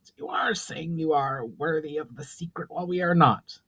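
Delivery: put-on indignant elderly mage; fuming old mage. A narrator's reading. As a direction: bristle with offended pride.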